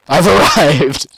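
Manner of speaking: drawn out through laughter; laughing slow announce. Pretend. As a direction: stretch it slowly while laughing.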